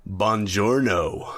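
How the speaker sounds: imitating a badly faked Italian accent; slow, drawn-out Buongiorno in bad Italian; terrible Italian accent. Actor posing as an Italian emissary, terrible Italian accent. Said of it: "is absolutely terrible".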